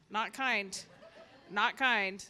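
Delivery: amused, half laughing about the rude lady. Real, not acted. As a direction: chuckle through the words. Laughing at the mean neighbor.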